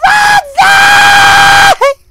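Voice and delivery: very high, long-held scream; desperate drawn-out call to a dog; screaming a name. Real, not acted. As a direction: stretch the name into an anguished shriek.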